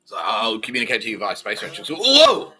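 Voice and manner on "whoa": high, loud, slow "whoa" of amazement; astonished. Pretend. Host feigning awe at phones, in loud mock astonishment. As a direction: gasp at it like it's a miracle.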